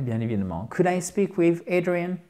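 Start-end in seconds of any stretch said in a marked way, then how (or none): 0.7-0.9 "Could" with no L sound; silent L. Shown as a demonstration. Teacher models polite "Could" for students, silent L. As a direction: say "Could" without pronouncing the L. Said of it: "vous ne prononcez pas le L".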